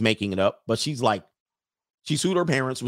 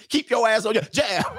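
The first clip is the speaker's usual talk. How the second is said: laughing; 10 semitones higher than usual. Real, not acted. Laughing coaching line.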